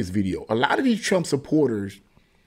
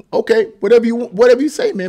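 dismissive, much higher and louder; sarcastic brush-off; 8 semitones higher, 4 dB louder, faster than usual. Real, not acted. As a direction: wave off the insult with mock indifference. Sarcastic reply to Barkley's insult.

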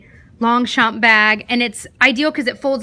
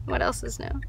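whispered song line; 3 semitones higher, 8 dB quieter than usual. Acted. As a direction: breathe the title softly. Sung song title.

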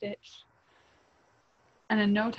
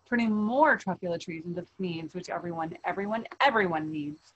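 yelled. Acted. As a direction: shout him down, hammed-up anger. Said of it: "I yelled at the Lorax".

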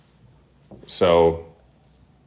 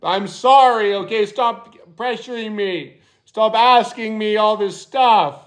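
pitched-up mock panic, a bit hammed-up; fake panic; 3 semitones higher than usual. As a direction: pretend to freak out after crashing the truck. Faking a panicked crash call.

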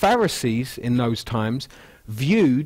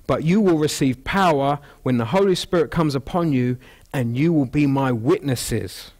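scripture reading; 3 semitones higher than usual. Shown as a demonstration. Preacher reading Acts to the congregation, raised reading voice. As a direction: read it out to the congregation. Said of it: "we're gonna read it out".

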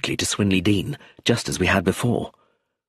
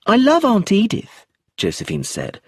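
put-on high, loud eager child; 9 semitones higher, 4 dB louder than usual. A narrator's reading. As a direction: declare it proudly. Josephine voiced as child.

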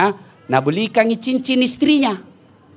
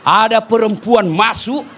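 louder, laughing complaint; exasperated complaint; 3 semitones higher, 4 dB louder than usual. Retold or imitated. Jinn complaining to the husband about the nagging woman, louder. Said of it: "Dia bilang".

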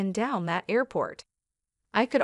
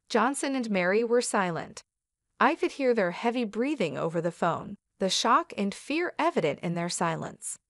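usual speaking voice

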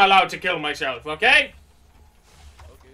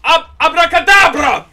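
loud showman abracadabra; magician voice; 4 semitones higher, 9 dB louder than usual. Acted. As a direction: announce it like a stage magician. Performing magic trick.

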